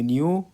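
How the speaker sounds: "new" as in "knew", K left silent. Shown as a demonstration. Teacher showing pupils the past of know, "new" with no K sound. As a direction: say "new" starting on a plain N. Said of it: "الكي سايلنت، لا تنطق".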